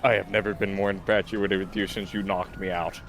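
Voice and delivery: low-pitched, put-on romantic Spanish accent; botched Spanish accent. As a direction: woo her in a badly faked Spanish accent. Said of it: "what is with the accent?".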